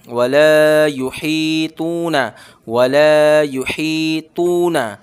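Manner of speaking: very slow वला युहीतूना, long ला, ही, तू; slow chanted recitation; stretched ला, ही, तू. Shown as a demonstration. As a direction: draw out ला, ही and तू, or short. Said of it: "लाम पे अलिफ मद्दा".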